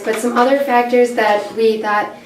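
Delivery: losing her voice, hoarse; rough, worn-out hoarse voice. Real, not acted. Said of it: "sorry, I'm losing my voice".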